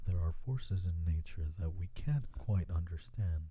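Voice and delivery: BBC documentary voice. Shown as a demonstration. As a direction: narrate it like a BBC nature film. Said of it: "my B B C documentary voice".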